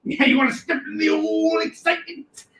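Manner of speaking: high hammed-up sales shout; hype pitch. Host hyping a comic deal to viewers, high excited shout. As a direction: sell it like a carnival barker.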